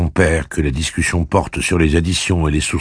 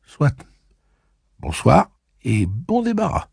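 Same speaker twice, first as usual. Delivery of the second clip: muttered to herself; 11 semitones higher than usual. Acted. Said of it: "se dit Suzanne".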